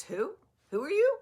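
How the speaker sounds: high, loud questioning squawk; mock baffled receptionist. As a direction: imitate a clueless receptionist challenging a patient. Receptionist questioning her on arrival.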